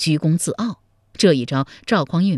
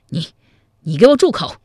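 exasperated roar; 2 semitones higher, 6 dB louder than usual. A narrator's reading. Zhao Kuangyin roars at Zhao Pu to stop talking. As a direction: explode at him to shut up. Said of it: "气急败坏地说".

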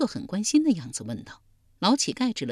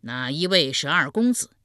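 loud question; 4 semitones lower than usual. Acted. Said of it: "大声问道".

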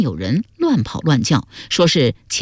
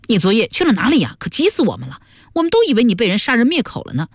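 quick, tumbling worried questions; excited overlapping-style chatter; 5 semitones higher, faster than usual. Acted. Friends crowd round the missing girl, rapid anxious chatter. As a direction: rattle it off like a relieved crowd all asking at once. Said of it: "七嘴八舌地问道".

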